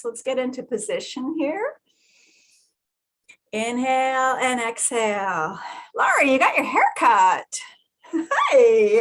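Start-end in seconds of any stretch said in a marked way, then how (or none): 3.5-5.6 guided breathing. Acted. Leads breathing exercise.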